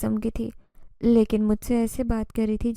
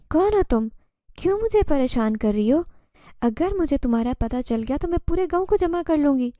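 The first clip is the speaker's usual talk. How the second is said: shouting; 4 semitones higher than usual. Acted. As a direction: call out at the stranger in the barn. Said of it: "میں تیز آواز میں چلا رہی تھی".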